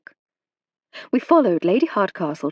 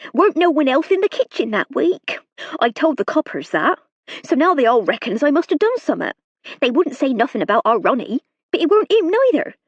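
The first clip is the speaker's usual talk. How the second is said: high, louder rustic servant voice, anxious; a frightened country maid pleading her case; nervous serving girl; 7 semitones higher, 4 dB louder than usual. A narrator's reading. Hilda voice held.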